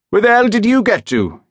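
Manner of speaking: high, loud yell out of a truck window; angry shout. Acted. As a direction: bellow it across at him, annoyed. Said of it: "he shouted".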